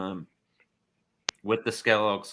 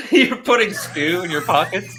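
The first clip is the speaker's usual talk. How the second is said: surprised; 9 semitones higher, 8 dB louder than usual. Real, not acted. GM amazed at player's action.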